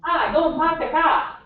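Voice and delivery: put-on Boston accent, no R, park sounds like pahk. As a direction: drop the R's Boston style, go and pahk the cah. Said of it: "someone from Boston might say".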